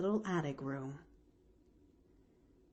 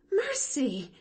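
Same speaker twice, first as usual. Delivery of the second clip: higher-pitched shocked exclamation; gasped; 8 semitones higher than usual. A narrator's reading. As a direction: cry it out aghast. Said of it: "gasped Nancy".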